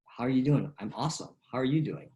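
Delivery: lifted, eager "I'm awesome"; cheery exchange. Shown as a demonstration. Coach acts out an upbeat greeting exchange. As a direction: bounce the question right back. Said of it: "You go".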